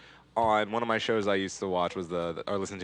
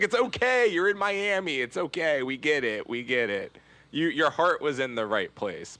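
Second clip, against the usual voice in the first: mock consoling; 4 semitones higher than usual. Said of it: "It's like".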